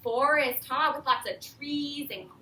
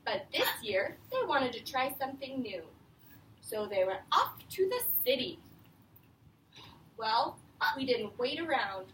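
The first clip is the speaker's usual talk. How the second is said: put-on reading to children. Teacher reading The Useful Moose to her class, lively read-aloud. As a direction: read it out to a class of young kids. Reads picture book to class.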